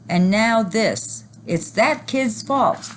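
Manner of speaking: high, slow furious dad; angry yell. A narrator's reading. Dad pointing at the boy, slow angry yell. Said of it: "one dad yelled".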